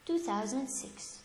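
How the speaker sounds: Mister Thomas ... two thousand six read slowly, with long pauses between phrases; slow read-aloud. Shown as a demonstration. Teacher modelling the sentence for students: slow phrase by phrase. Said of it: "let's read it slowly".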